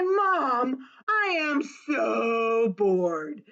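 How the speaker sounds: put-on slow, whining little boy; whiny bored boy. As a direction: drag it out like a bored kid. Bored boy whines to mom.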